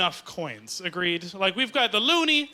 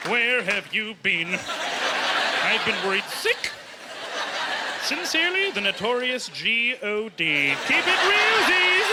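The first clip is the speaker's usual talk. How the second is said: God writing a letter; slower than usual. Acted. God writing to a late centenarian, hammed-up reproach. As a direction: play God scolding, then signing off big. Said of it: "that's how God writes letters".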